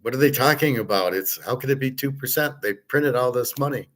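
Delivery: a touch of head-against-the-wall frustration; exasperated disbelief. Retold or imitated. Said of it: "beating your head into the wall going".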